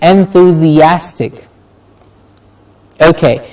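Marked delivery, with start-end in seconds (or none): 0.0-1.5 "enthusiastic" slowly, weight on AS; slow en-thu-zi-AS-tic, strong A; stress on A. Shown as a demonstration. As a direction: say "enthusiastic" hitting the A vowel. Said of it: "the a vowel sound is getting stressed".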